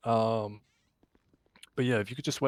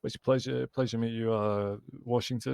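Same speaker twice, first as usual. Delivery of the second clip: losing voice. Real, not acted. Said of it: "Sorry, I'm losing my voice".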